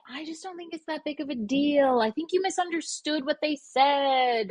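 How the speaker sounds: soothing peacemaker. Retold or imitated. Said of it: "They're like".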